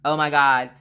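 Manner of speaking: loud, rapid-fire repeated exclamation; hammed-up overjoyed outburst; imitated excitement. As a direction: gush like a husband beside himself. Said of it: "be excited".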